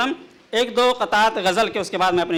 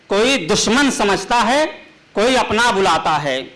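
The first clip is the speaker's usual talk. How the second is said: measured, declaiming poetic delivery; ghazal recitation; 3 semitones higher than usual. Acted. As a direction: recite the couplet grandly.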